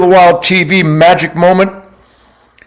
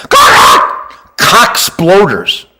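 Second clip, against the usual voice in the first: drawn-out shout; 2 semitones higher, much slower than usual. Real, not acted. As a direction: bellow it with gusto. Cry shout on pheasant name.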